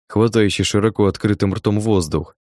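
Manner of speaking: ordinary delivery, nothing marked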